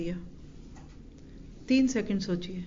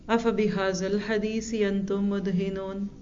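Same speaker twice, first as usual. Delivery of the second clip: slow Quran recitation. Real, not acted. Quotes a Quran verse.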